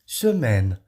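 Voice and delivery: "Semaine" with a pouted first e; French mute e. Shown as a demonstration. Teacher showing semaine to students, French pronunciation. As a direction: say "Semaine" with rounded mute e, open ai. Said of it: "de E com o biquinho".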